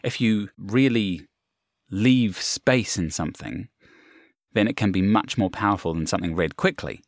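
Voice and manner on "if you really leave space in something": slow with pauses. Shown as a demonstration. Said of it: "It's a bit like silence".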